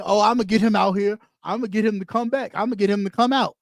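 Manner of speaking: low, fast mocking inner voice; mock scheming voice. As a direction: sneer it out, playing their plan.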